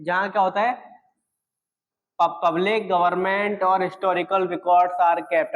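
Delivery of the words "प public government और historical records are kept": dictated word by word, very slow; slow dictation. Shown as a demonstration. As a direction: read it slowly so students can write it down. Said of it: "teacher reads definition slowly for notes". (धीरे धीरे लिखवाते हुए)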